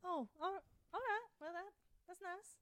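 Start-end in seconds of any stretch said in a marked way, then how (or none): 1.4-2.6 whispering. Acted.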